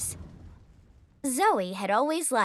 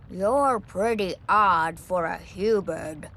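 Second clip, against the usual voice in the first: pompous dragon voice; 4 semitones lower than usual. Acted. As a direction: announce yourself like a grand old beast. Dragon puzzled by Zoe.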